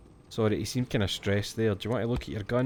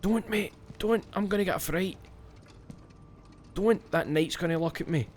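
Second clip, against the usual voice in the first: higher pleading, half-joking fright; mock scared pleading; 8 semitones higher than usual. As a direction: beg the game not to scare you, playfully.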